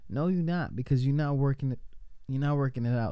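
hiccuping between words; talking through hiccups. Real, not acted. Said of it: "Excuse my hiccups".

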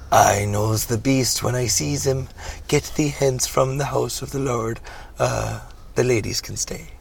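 slow mock-biblical banishing; hammy churchman's rebuke; preacher reverend, stern. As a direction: cast out the beast, then ease off.

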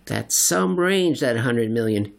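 impressed slow whistle of a line; awed Silverbug. Acted. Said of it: "he observed".

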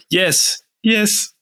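high, giving-in yes; resigned yes. Acted. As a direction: give up and accept it. Player gives in.

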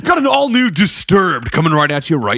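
smooth radio host. Acted. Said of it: "radio D J voice".

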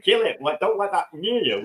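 urgent, frightened inner shout to get rid of it; panicked inner voice. Retold or imitated. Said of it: "that's what my brain's thinking".

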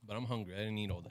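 talking while chewing; words round a bite of food; mouth full. Real, not acted. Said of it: "I'm sorry that I'm eating".

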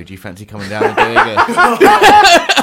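squeaky high-pitched put-on voice, slow and loud; high mock voice. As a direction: ham up a silly invitation in a shrill falsetto. Mock caller invitation voice.

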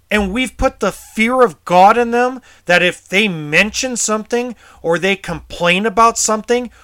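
real outrage, voice up and pushing; angry. Real, not acted. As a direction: let the fury out, pitch climbing. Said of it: "I get really emotional".

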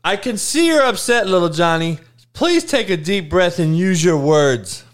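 lightly mocked soothing parent; gentle modern parent. Parent soothing little Johnny, mock gentle parent. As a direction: plead patiently, as to an upset child. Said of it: "little Johnny as the parent of now".

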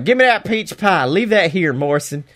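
hint of a Georgian accent on the demand. AJ demands the peach pie in a lightly done Georgian accent. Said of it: "with the most Georgian accent I've ever heard".

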